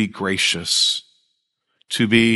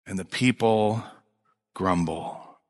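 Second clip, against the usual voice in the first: "grumble" much lower and softer, almost growled; dropped to a mutter; 5 semitones lower, 7 dB quieter, slower than usual. Real, not acted. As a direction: let "grumble" sink to a low grumble. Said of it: "dramatic drop on grumble".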